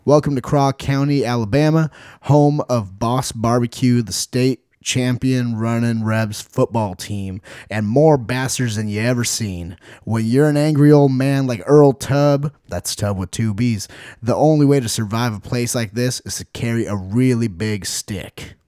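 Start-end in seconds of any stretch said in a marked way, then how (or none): 0.0-12.5 lively Southern-accented sales pitch; Southern US accent, pitched up a touch. Real, not acted. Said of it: "Why did I do a Southern accent". 14.2-18.5 lightly Southern-accented reading; understated Southern US accent. Real, not acted. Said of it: "Why did I do a Southern accent".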